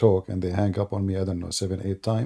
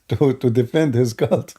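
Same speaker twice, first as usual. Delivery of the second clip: words broken by laughter, slowed; chuckling through the words; laughing out the jab; laughing while talking; 3 semitones higher, 4 dB louder than usual. Real, not acted. Mocking opponent who won't debate.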